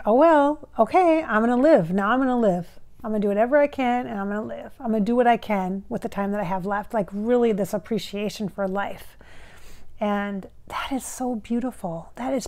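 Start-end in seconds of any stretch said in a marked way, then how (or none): 0.1-6.9 determined. Retold or imitated. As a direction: announce it with fresh resolve. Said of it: "It was like".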